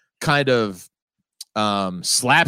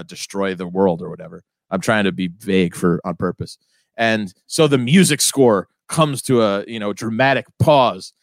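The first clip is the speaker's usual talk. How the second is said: normal talking voice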